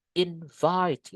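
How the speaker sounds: "Invite" with a long falling "vite"; stress on second syllable. Shown as a demonstration. Teacher repeating the model verb, stress on "vite" in "Invite". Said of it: "penekanannya di suku kata yang kedua".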